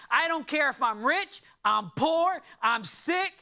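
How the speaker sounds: rising, fervent preaching as Paul. Acted. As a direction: build to a near shout at "the stoning". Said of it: "Paul is saying".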